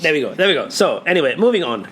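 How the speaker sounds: put-on a light, half-conscious Welsh-ish accent; a hint of a borrowed Welsh accent; slipping into an accent. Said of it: "why am I doing the accent?".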